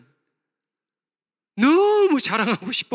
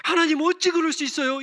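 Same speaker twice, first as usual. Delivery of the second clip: protesting to God; 6 semitones higher than usual. Acted. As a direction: argue with heaven. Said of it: "따졌던 하박국이". (하나님께 항의하는 하박국, 높고 크게)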